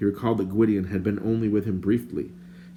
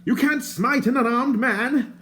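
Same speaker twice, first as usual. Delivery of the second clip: higher, prim and indignant stranger; lightly voiced fussy stranger; 5 dB louder, slower than usual. A narrator's reading. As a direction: play the fussy bard, put out.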